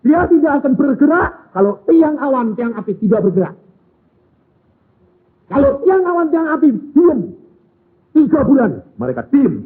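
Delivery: high, loud and fast rhetorical questions; fiery preaching. Acted. Preacher questions the congregation, loud and high. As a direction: press the crowd with each question.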